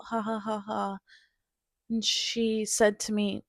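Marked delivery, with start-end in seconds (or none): 0.0-1.0 mock brushing it off with a fake laugh; forced laugh. To her mom on the phone, covering despair with a fake laugh. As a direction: toss a hollow ha-ha at the end. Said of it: "kind of threw a laugh at the end".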